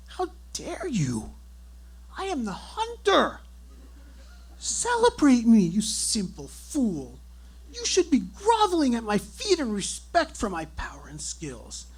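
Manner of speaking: hammed-up lordly indignation; mock villain. Husband playing grand hunter to his dismissive wife.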